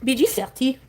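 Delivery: mock French pet call; playful French-accented pet name; exaggerated French accent. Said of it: "exaggerated French accent".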